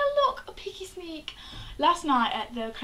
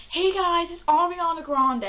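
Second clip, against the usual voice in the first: put-on English accent; 4 semitones higher, 4 dB louder than usual. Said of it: "it's English".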